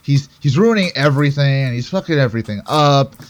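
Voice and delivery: a touch of mock exasperation; understated irritated complaint, acted out; mildly annoyed. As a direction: imitate someone slightly put out, grumbling lightly. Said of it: "a little bit annoyed".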